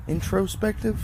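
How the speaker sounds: Introspective? tested with a doubtful rise; third try, questioning. Real, not acted. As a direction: ask Introspective? high, unsure of the word. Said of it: "One of the three".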